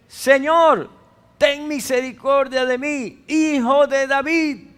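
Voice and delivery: clamor agudo y ferviente; súplica clamada. Retold or imitated. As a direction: ruega con toda el alma. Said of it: "se aseguró de que Jesús conociera". (mujer suplica a Jesús clamando)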